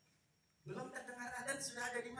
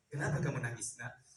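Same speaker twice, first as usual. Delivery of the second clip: gentle noodle seller; 13 semitones lower than usual. Acted. Noodle seller asks the crying child.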